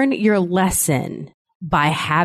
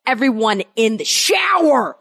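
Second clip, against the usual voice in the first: higher, drawn-up mock command; Vincent D'Onofrio; 4 semitones higher than usual. Mom sending messy kids to shower, mock-menacing order. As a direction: play the exasperated parent ordering kids about. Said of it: "I brought that Vincent D'Onofrio back out".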